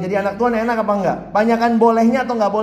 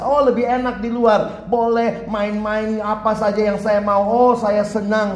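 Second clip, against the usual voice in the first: lightly acted carefree glee, drawn out; gleeful fish; 3 semitones higher, slower than usual. Fish imagining life out of water, slow mock-gleeful lilt. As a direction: stretch it out like a fish savoring freedom. Voices the fish enjoying freedom outside.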